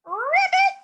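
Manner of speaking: very high loud ribbit; piercing frog call; frog croak. Acted. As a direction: croak it out proudly. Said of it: "the little pig said".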